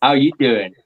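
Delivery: lightly imitated catchphrase, a little low; a half-hearted go at a sitcom character's greeting; Joey. Shown as a demonstration. Host tossing a catchphrase at his co-host, light Joey impression. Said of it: "that was my Joey impression".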